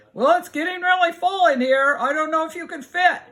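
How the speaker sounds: high, loud animal voice; doubtful animals. Acted. Animals inside answering the newcomer, high and doubtful.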